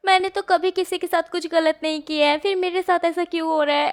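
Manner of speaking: a lightly acted tearful complaint; crying out. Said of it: "वांगजी तो बहुत ज़ोर-ज़ोर से रोने लगता है". (रोते हुए शिकायत)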